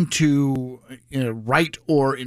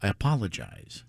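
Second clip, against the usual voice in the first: puppet voice; 7 semitones lower, 8 dB quieter than usual. Acted. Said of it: "in my puppet voice".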